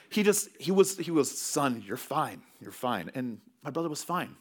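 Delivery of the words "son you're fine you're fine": calm reassurance. Retold or imitated. Dad calmly reassuring son.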